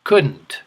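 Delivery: couldn't said clearly, falling tune; couldn't modelled for repeating; model word couldn't. Shown as a demonstration.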